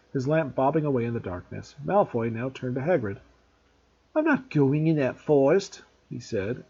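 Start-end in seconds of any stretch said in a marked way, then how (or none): 4.1-5.8 panicky refusal. A narrator's reading. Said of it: "note of panic in his voice".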